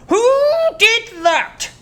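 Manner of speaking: elephant bellow; big deep voice. Acted. Chunky demanding who bit him. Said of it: "in his big, deep voice".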